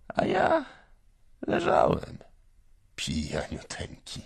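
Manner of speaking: high cracking cry, then fading; voice breaking. Acted. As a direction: let the voice break into a sob. Drunk father's confession breaks. (łamiącym się głosem, płaczliwie)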